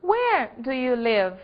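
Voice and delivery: slow, careful model question; slow classroom example. Shown as a demonstration. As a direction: read it slowly for students. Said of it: "a atividade na frase".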